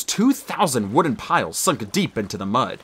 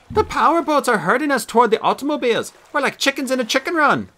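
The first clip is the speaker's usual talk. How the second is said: lightly voiced cool AI, pitched up; AI assistant voice; 12 semitones higher than usual. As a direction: report the danger like a calm computer. AI Nani reports the chase.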